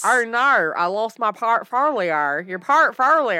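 put-on Australian accent. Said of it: "Have you ever seen those on TikTok".

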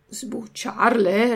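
slow, puzzled question rising at the end; drawn-out disbelief at the request; astonished old father echoing the word; amazed. Acted. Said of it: "replicò Geppetto meravigliato".

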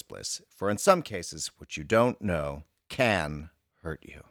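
measured, deliberate column reading; reading a reply aloud. Acted. Reading the columnist's answer to co-host, measured read-aloud voice.

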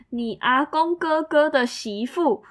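incredulous question. Retold or imitated.

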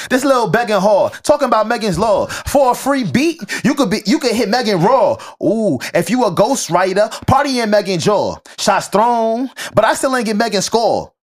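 lightly voiced twitchy crackhead read. Shown as a demonstration. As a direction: read the rap like a jittery crackhead. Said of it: "I'm trying to read in crackhead, uh, tone is hard".

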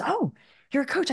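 high-pitched surprised question; retold surprise, pitched well up; surprised friend.

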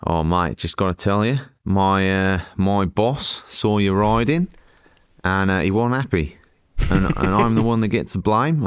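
imitating an Aussie guard; lightly hammed-up Australian complaint; not quite convincing Australian accent; attempted Australian accent. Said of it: "It's still not Australian".

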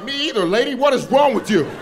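high-pitched exasperated retort; alarmed protest. Retold or imitated. Comedian to screaming old lady, alarmed protest. Startled man arguing back at screamer.

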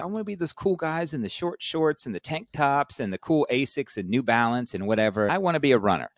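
high, eager wish; eager dreaming. Retold or imitated. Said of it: "I'm like".

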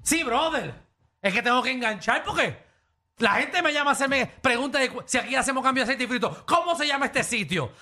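imitated shop employee. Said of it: "Y él dijo".

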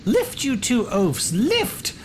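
very high, hammed-up scolding lady; drawn-out falsetto commands without real volume; yelling noblewoman. Noblewoman orders two men to free the cart, mock yelling. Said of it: "yelling at them like".

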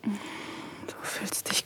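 slow, soft whisper. Acted. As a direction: savour it in a whisper. Describing a kiss intimately. (langsames, zartes Flüstern)

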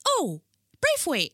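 high, drawn-out "Braithwaite" with long "ay"; mimicked mispronunciation. Mimicking people who get her name wrong, high slow "Braithwaite". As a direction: parrot "Braithwaite" back slowly and high. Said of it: "and they're like".

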